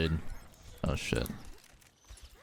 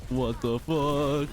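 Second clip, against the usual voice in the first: stunned disbelief; 7 semitones higher, much slower than usual. Real, not acted. Shocked at sudden death.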